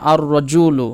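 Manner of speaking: "আর রজুলু" with a doubled r and no l before it; lam dropped. Shown as a demonstration. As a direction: skip the lam, hold the r in "আর রজুলু". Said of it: "এই লামটা বাদ গিয়ে".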